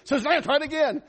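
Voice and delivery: high, loud mock shout; retold childhood scream. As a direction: holler another try at the magic word. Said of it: "my backyard I screamed".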